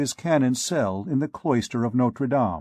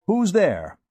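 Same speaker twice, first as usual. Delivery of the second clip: sharp, higher, irritated bark of a disturbed scholar; gruff annoyed call through the door; snarling like a famished dog; 7 semitones higher than usual. A narrator's reading. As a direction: snap it out like a dog guarding its bone. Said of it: "in the gracious tone of a famished dog".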